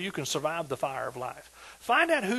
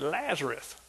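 quiet command; 3 semitones lower, 6 dB quieter, slower than usual. Retold or imitated. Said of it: "He said".

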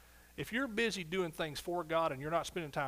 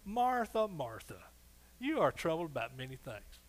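smiling. Retold or imitated. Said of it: "smiling when he said".

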